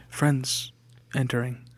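soft hushed whisper. Shown as a demonstration. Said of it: "we should whisper friends".

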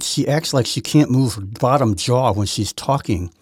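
lightly mimicked stiff-jaw talk, slow; imitating Nikki Haley. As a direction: talk with the jaw barely moving, slowly. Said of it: "who talks like this".

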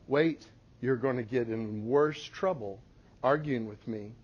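steady and calm, no anger; quiet firm parental voice; calm firm correction. Retold or imitated. Mom calm stern correction.

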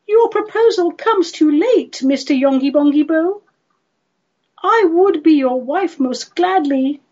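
high-pitched lamenting lady; mock-tearful lady turning down a suitor; sad refusal. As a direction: plead regret in a high voice. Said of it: "answered sadly, and her tears".

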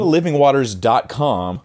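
livingwaters said slowly, each part clear; slow emphatic repeat. Shown as a demonstration. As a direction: spell out livingwaters dot com slowly. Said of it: "repeated slowly".

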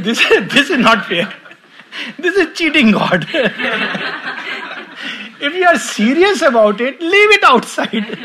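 high, loud, laughing through the words; giggling playful outrage; laughing mock protest. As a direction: scold in jest, chuckling. Mock protest at man hiding belt.

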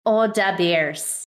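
put-on slow Chicago accent with "da" said as a d sound for "the". Co-host echoing the Chicago joke in a slow Chicago accent. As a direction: drawl out "Oh, da Bears" like a Chicago superfan. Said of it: "that's more Chicago".

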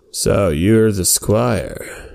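very slow, measured centaur leader; slow centaur chief. Acted. The jacked centaur chief greeting the squire, very slow. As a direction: weigh each word like a proud leader.

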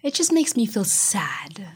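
put-on slow, whispered voice of a sad child; a slow little whisper; whispered child quote. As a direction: hush it like your daughter confiding. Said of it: "And she says".

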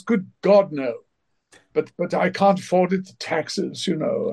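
a hint of a protesting thespian; John Gielgud. Actor denies living the high life, lightly imitated protest. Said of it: "He goes".

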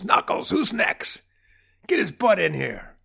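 high, strained wise-guy yell; mock scream. Doctor yelling out to his assistant, hammed-up scream. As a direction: holler it like a cartoon mobster boss. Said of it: "and screams".

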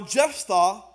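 Jephthah with a lisped th sound. Real, not acted. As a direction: say Jephthah with a little lisp. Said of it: "Got a little lisp in the Jephthah".

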